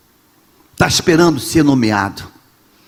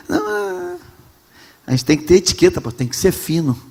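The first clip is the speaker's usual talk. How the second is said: softer, prissy mock of a refined member; prim churchgoer; 5 dB quieter than usual. Pastor mocking a member who wants etiquette, softer. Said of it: "Ela falou o quê?".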